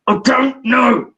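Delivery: loud, drawn-out retold outburst; acting a child pushed too far; exasperated boy. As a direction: stretch each word in mock frustration. Pushed boy finally bursts out.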